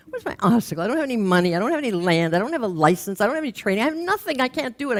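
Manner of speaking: plaintive wail of someone who has nothing; despairing complaint. Retold or imitated. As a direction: pile up the obstacles until you crack. Woman listing her obstacles, despairing.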